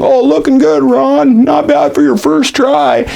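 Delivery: very high, bright-falsetto Chevy praise; voicing Chevy. Chevy praises Ron's first owl, very high and a little slow. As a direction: squeak it out like a proud teacher.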